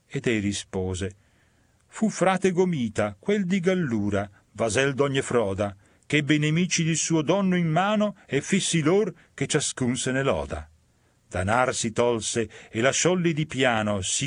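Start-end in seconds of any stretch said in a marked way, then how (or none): 1.9-10.7 lightly raised, eager telling; a hint of the eager damned soul; sinner's voice.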